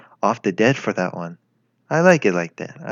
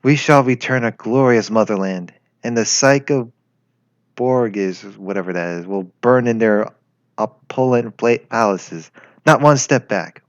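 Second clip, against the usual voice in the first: rallying cry. Acted. Rallying her comrades at the memorial, stirring declaration. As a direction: rouse the troops. Continues rallying war speech.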